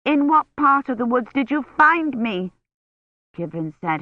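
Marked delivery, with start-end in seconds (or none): 0.1-2.5 higher and louder, urgent; voice rising. A narrator's reading. Kivrin pleading with the knight, voice rising. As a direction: push up in pitch and volume. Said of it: "her voice rising".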